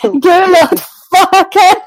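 slow, laughing Good Lord Farke; drawn-out laughing. Real, not acted. Host marvelling at the name while laughing. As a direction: stretch it out amused.

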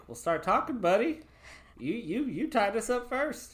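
tough demand. Acted. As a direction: lean on him, impatient. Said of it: "I'm like".

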